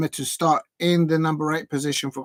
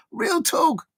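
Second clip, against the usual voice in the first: emphatic shout; 11 semitones higher than usual. Real, not acted.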